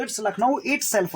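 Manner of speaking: very slow, weight on Lucknow; slow demo sentence. Shown as a demonstration. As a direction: dictate slowly, stressing Lucknow. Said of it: "Lucknow ही तो है".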